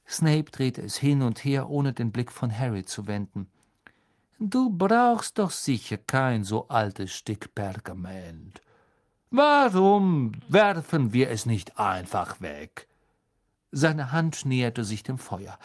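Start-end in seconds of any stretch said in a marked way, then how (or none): 4.4-12.9 slow, sly menace; silky threat. Acted. Snape slyly threatening to burn the map. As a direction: tempt him with the threat.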